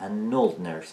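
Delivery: put-on "an old nurse" run together as "a nold nurse"; linked n-sound. Shown as a demonstration. Teacher repeating the joined form, n linked to old. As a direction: let the n of "an" begin "old". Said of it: "ان میچسبه با old".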